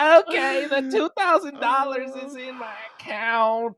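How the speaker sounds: put-on very high, loud shouted old-lady voice; grandma voice. Friend voicing the grandma announcing the money, high and loud. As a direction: announce it like a proud oblivious grandma. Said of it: "pretending to be this grandma".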